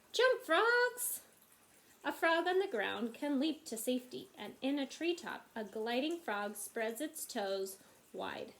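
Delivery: animated picture-book narration; reading to children. A narrator's reading. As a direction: read aloud with big swoops on key phrases.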